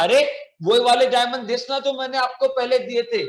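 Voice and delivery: urgent pleading. Acted. Merchant reminding the keeper of the diamonds, insistent. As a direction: press him to remember, urgently.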